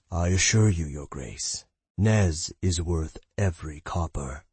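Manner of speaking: low, slow smooth mage; a hint of a silky charmer; honeyed voice. Mage voice continues.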